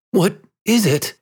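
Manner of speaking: high, fearful question; shrinking cry. A narrator's reading. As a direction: cry it out, recoiling. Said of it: "he cried, shrinking".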